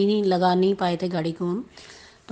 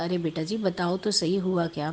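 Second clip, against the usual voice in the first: a kind uncle coaxing softly; softer, gently asking like a caring elder; lovingly; 3 dB quieter than usual. Retold or imitated. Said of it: "बड़े ही प्यार से बोला". (प्यार से, नरमी से पूछते हुए अंकल)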